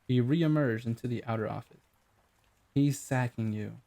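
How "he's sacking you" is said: slow, pleased with herself; satisfied. Acted. Client gloating at the rude director, slow and satisfied. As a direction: savour the news. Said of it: "with satisfaction".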